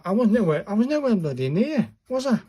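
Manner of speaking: amused disbelief at himself; exasperated. Real, not acted. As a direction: laugh at how wrong you were. Laughing at own failure.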